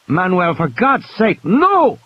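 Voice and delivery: slow, then shout the no; doctor begs the worker to let her help; pleading cry. A narrator's reading. Bobby cries out to stop him.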